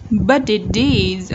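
Budget deeds in one slow unbroken chain, "bu-di-dees"; linked twice. Shown as a demonstration. Teacher demonstrating consecutive linking to learners, Budget deeds joined throughout. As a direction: link Budget deeds twice, each T tapped like D. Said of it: "đọc nối liên tiếp hai lần".

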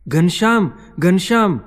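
loud, high-pitched urgent call. A narrator's reading. Rampratap startled awake by the rumbling, shouting for Ghanshyam. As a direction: cry out the name in alarm. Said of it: "રામપ્રતાપે ફરી બૂમ મારી".

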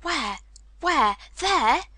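rising in pitch with each word; eager questions, building in excitement; excited cry. A narrator's reading. Colin demanding to see the spot, excited cry. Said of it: "he cried".

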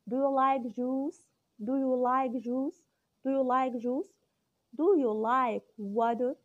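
very slow, careful questions with a rising end; slow repeated drill. Shown as a demonstration. Teacher drilling questions for parents to repeat at home, very slow. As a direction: spell each question out for a small child. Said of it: "نبتدي نسأل حاجة حاجة فيهم".

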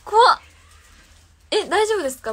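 real fright, voice jumping high and loud; frightened cries, pleading for a friend to come; scared. Real, not acted. Streamer spooked by viewers reporting noises in her room, scared high cries.

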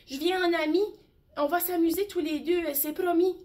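a small mouse offering friendship; friendly little mouse. Acted.

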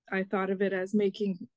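ordinary talk, nothing marked

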